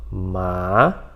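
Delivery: "Ma" starting low and climbing up; "Ma" sliding upward like a question; second tone, rising. Shown as a demonstration. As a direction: begin "Ma" down low, then raise it. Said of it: "começar o tom lá embaixo".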